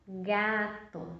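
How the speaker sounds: "gato" said slowly and clearly; word sounded out. Shown as a demonstration. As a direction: read out "gato" as the answer. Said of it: "Formou a palavra".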